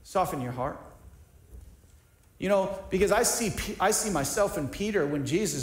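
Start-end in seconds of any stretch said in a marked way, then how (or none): 0.0-0.8 soft and low, a quiet gentle urging; a hushed gentle plea to soften; gentle voice of God. Retold or imitated. Pastor voicing God gently urging him to soften. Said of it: "God's saying".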